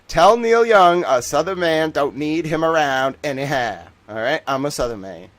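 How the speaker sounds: loud, mock-proud Southern declaration; put-on Southern accent. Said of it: "I speak in a Southern accent now".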